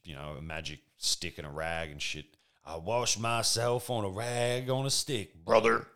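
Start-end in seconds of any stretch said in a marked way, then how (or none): 2.6-5.9 slow, loud, higher wrestler growl; Hulk Hogan voice. Retold or imitated. Host imitates the wrestler from the documentary, in a slow loud Hulk Hogan voice. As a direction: drag it out like a proud old wrestling promo. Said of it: "Sorry, I'm not doing the Hulk Hogan voice".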